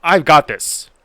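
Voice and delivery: loud, high, confident boast; cocky bravado. Acted. Racer volunteering to tackle an electric fence, cocky. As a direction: announce it with big hero bravado.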